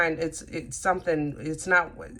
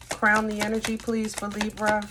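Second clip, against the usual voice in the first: asked again a little higher and brighter; repeated request; 4 semitones higher than usual. Real, not acted. Reader repeating her request to the cards, raised. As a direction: call it out once more to the deck.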